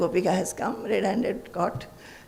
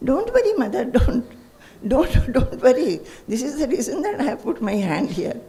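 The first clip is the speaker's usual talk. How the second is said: laughing as Krishna; 4 semitones higher, 3 dB louder than usual. Retold or imitated.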